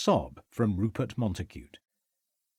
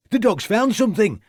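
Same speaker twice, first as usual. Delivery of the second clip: high, loud excited shout; a ringing shout across the snow; 10 semitones higher, 6 dB louder than usual. A narrator's reading. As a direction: call out the find. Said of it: "shouted Catherwood".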